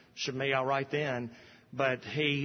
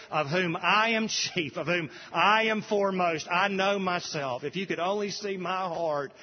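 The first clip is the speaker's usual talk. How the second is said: preacher voicing the sinner's heart, raised up; impassioned confession; 5 semitones higher than usual. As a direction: cry it out as your own confession.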